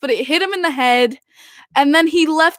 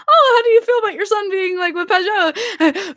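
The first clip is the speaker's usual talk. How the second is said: imitated interviewer; 5 semitones higher than usual. Acts out an interviewer's question.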